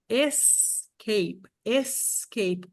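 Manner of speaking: escape said the English way, one syllable es-cape run together; English word said. Shown as a demonstration. Teacher modelling escape for the class. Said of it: "por exemplo, ó".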